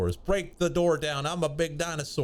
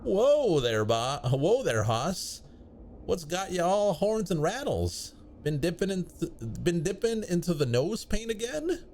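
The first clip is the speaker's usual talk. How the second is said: cowboy voice; 4 semitones higher than usual. Acted. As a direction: play a rowdy Wild West cowboy. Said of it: "Gabby doesn't talk like that".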